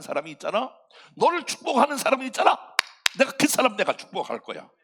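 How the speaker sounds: 힘주어 약속하는 하나님 목소리; 아브라함에게 다정하게 다짐하는 하나님; God promising. Acted. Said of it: "하나님 이렇게 약속하시는 거야". (하나님이 아브라함에게 약속하며 힘 있게)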